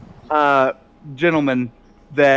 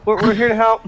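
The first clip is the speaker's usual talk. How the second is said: bright higher sister, eager to help; cheery sister voice; 10 semitones higher than usual. Acted. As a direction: chirp it like a helpful sister. Sisters greet the players, GM voicing.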